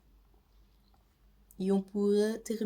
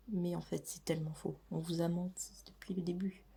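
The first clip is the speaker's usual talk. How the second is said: whispering; 6 dB quieter than usual. Acted. Whispered confession to viewers.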